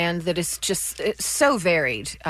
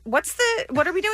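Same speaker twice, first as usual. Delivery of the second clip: mock sexy; 13 semitones higher than usual. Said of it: "you're doing sexy".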